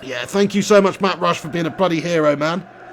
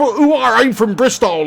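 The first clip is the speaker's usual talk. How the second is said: put-on West Country accent; 3 semitones higher, slower than usual. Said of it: "a proper West Country farmer type".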